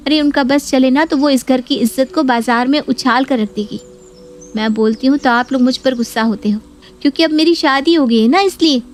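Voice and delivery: lightly voiced nagging daughter; scheming daughter complaining. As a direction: whip up outrage about the sister-in-law. Neha complains to her mother.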